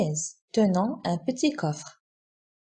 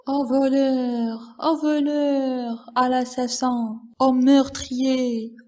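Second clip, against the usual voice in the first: crying out for help; 3 semitones higher than usual. Acted. Miser robbed of his cassette, crying out in theatrical alarm. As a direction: wail the alarm in long, theatrical cries. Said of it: "il crie au voleur dès le jardin".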